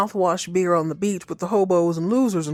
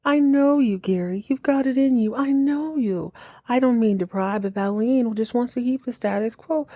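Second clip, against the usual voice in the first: mocking Abby; 4 semitones higher than usual. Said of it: "Abby become Doctor Frickin' Phil".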